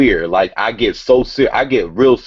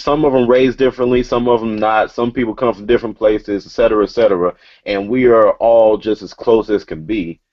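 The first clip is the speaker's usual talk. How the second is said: wired. Real, not acted. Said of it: "I'm wired right now because that's what Nove do".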